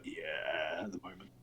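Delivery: drowsy low dog murmur; a lazy contented grunt; sleepy dog. Acted. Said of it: "it's just there going like".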